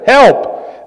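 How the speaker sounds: short high-pitched mock cry; retold cry for help. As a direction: call it out high, as a retold prayer. Repeats his one-word prayer.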